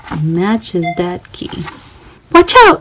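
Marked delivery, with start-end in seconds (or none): 2.3-2.8 a high, loud call to watch out; warning shout. Acted. Narrator warns young listeners that Swiper is coming. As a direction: alarm the kids before the thief comes.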